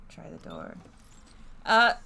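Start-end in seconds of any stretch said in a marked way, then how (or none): 1.6-1.9 whispered, tense narration. Acted. Player reading the tense door scene in a whisper. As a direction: breathe it like a suspense story.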